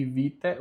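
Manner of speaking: "vitae" ending "té"; silent A. Shown as a demonstration. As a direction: drop the A of "vitae". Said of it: "o A mudo". ("vitae" com o A mudo, "vité")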